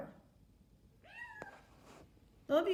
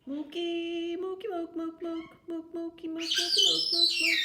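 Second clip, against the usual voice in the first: high mookie cries that get louder; mock cat cry; 8 semitones higher, 8 dB louder than usual. Owner copying the cat's cry, high and building louder. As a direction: copy the cat's call, building up.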